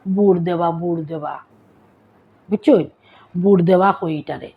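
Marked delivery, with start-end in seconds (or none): 0.1-0.7 বুড় দেবা said slowly with a clear Sylheti r; Sylheti pronunciation. Shown as a demonstration. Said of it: "এটারে আমরা কিতা সিলেটিতে কই". 0.8-1.3 বুড় দেবা repeated much softer and lower; quiet echo of the word. Shown as a demonstration. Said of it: "এটারে আমরা কিতা সিলেটিতে কই".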